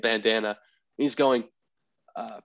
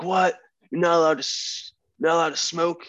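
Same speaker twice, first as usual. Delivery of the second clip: incredulous; 6 semitones higher than usual. Retold or imitated. Incredulous at smoking ban.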